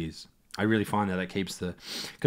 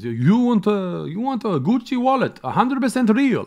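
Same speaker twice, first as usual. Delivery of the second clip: imitating the Rome seller's sales pitch; street seller pitch; 9 semitones higher, 8 dB louder than usual. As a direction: hawk it like a pushy street seller.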